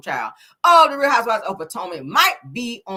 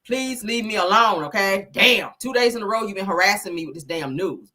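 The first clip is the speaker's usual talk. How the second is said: mock exasperation; 3 semitones higher than usual. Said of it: "I'm tired of Karen".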